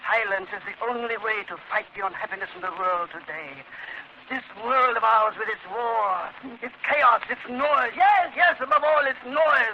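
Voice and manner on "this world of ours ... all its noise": rising louder fanatic outburst; building rant. Acted. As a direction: work yourself into a frenzy over noise. Madman rants about noise.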